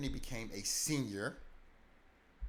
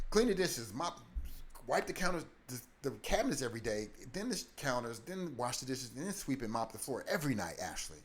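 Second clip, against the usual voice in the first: bossy foster dad; 2 semitones higher than usual. Retold or imitated. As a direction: rattle off orders like a harsh dad. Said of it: "He was just like".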